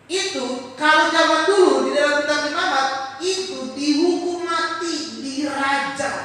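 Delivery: loud, high, driving sermon; fiery preaching. Real, not acted. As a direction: preach it with full force. Preaching at full force.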